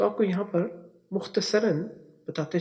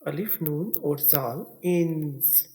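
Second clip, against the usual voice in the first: slow spelling out; much slower than usual. Shown as a demonstration. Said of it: "Urdu में देखिए".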